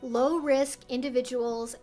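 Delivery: ordinary delivery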